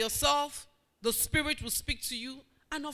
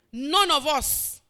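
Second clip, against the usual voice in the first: slow loud proclamation; 6 dB louder, slower than usual. Acted. Preacher's slow loud declaration.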